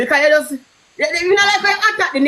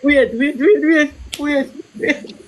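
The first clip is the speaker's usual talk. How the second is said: laughing; much slower than usual. Real, not acted. Laughing, trying to interrupt.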